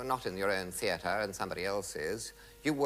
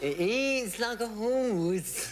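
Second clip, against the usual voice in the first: laughing; 10 semitones higher, 4 dB louder, much slower than usual. Real, not acted. Joking about pet in box.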